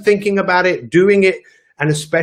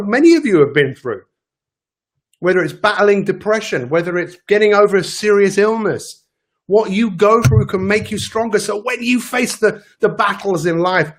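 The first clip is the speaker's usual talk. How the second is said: ordinary talk, nothing marked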